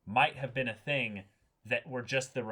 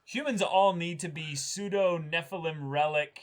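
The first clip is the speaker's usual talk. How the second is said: raised, slow villain declaration, higher and louder; 4 semitones higher, 5 dB louder than usual. Retold or imitated. Host voicing the anime villain's plan in a raised, slow voice. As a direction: play the scheming villain laying out his plan, slowly.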